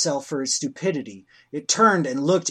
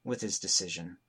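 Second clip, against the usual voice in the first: story narration. A narrator's reading.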